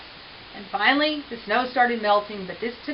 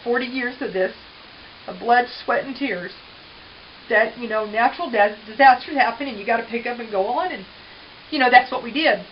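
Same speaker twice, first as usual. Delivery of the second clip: emotional, near tears; 2 semitones higher, 4 dB louder than usual. Real, not acted. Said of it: "it gets emotional".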